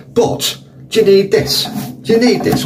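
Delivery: high, outraged query at the toilet paper; indignant high-pitched complaint. Real, not acted. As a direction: ask it high and incredulous. Holding up one toilet sheet.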